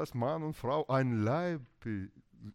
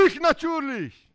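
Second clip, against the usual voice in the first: high, loud mock triumph; hammed-up self-satisfied winner; boasting husband; 12 semitones higher, 7 dB louder than usual. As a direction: proclaim victory over the wife. Husband boasts of winning quarrel.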